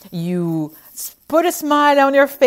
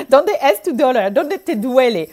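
French-accented Spanish attempt; 3 semitones higher, 4 dB louder than usual. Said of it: "trying to put an accent".

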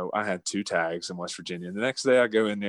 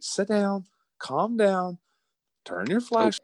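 higher-pitched mock brother giving orders; imitating brother's orders; 11 semitones higher, slower than usual. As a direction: boss the kid brother around, voice pitched up. Brother calming him down.

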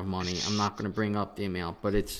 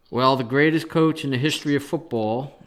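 louder, sarcastic mock praise; 2 semitones higher, 6 dB louder than usual. Real, not acted. Podcaster mocking the coach who lost his bet, sarcastic. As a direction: hand out the grand title with pointed sarcasm. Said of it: "I say that sarcastically".

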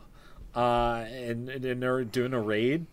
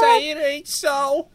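mock dramatic gasp; 13 semitones higher, slower than usual.

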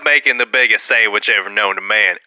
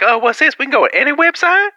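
high-pitched wide-eyed discovery; mock amazement; 13 semitones higher than usual. Newcomers let loose online finding any website, high mock amazement. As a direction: send the voice way up in wonder.

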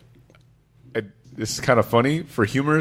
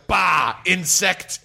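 Hulk voice; 4 semitones higher, much slower than usual. Retold or imitated. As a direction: play a raging monster. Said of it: "I would backhand somebody and go".

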